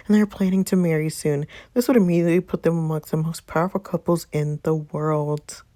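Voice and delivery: reading out breaking news like an anchor; news bulletin. Acted. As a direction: deliver it as a TV news report.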